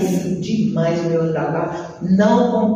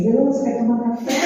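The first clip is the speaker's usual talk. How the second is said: casual offer; 3 semitones higher, faster than usual. Retold or imitated. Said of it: "Aí eu só virei assim".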